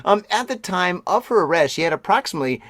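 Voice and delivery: brisk newsreader delivery; news read. Acted. Reading the news story to the listeners as an anchor.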